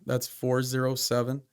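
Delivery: slow, deliberate number dictation; dictating. Shown as a demonstration. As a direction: read the digits out slowly, one by one. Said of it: "give you my license number".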